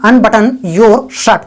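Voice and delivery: very slow, word by word; slow, clear dictation; slow model sentence. Shown as a demonstration. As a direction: spell it out slowly for learners. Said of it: "यानी".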